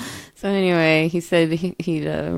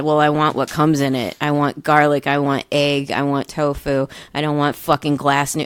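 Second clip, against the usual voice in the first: retold heated complaint; 3 semitones lower, 4 dB louder than usual. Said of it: "And I said".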